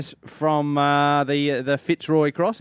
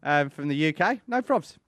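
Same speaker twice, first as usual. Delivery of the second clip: much higher, louder, sarcastically keen; sarcastic mock eagerness; 9 semitones higher, 4 dB louder than usual. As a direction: fake enthusiasm as a wink to listeners. Mock reply to fan's PayPal.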